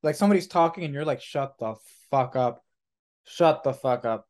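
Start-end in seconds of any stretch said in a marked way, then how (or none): 1.2-4.3 slow, weighted mock exasperation; mock irritation. Tired rep thinking at somebody who keeps talking, slow mock irritation. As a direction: spell out your annoyance slowly, word by word.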